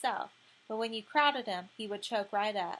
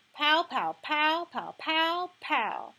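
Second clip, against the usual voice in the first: punching sounds; 5 semitones higher, 5 dB louder, much slower than usual. Acted. Gilly acting out punches.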